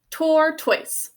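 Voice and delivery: spelling voice, tor-toise split clearly; syllable-by-syllable spelling say. Shown as a demonstration. Teacher to class, sounds out the spelling word. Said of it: "two syllables".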